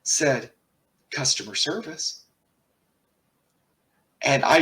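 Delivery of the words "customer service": flat, even monotone. Retold or imitated. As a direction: say it with no inflection. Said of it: "in the most monotone voice".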